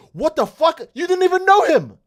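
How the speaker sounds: high, incredulous mock outburst; mock baffled Cell. Cell reacting to Gohan's transformation, high incredulous outrage. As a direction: play Cell stunned and outraged.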